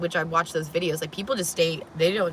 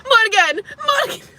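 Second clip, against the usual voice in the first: imitating a creepy call; 5 dB louder than usual. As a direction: call her name like a stalker at the glass. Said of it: "He's at my window".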